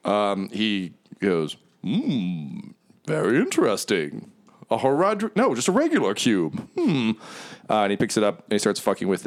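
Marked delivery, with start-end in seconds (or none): 1.8-7.1 lightly voiced devil sizing up a find; musing, with swooping pitch; intrigued devil. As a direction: ponder it theatrically. GM voicing devil appraising item.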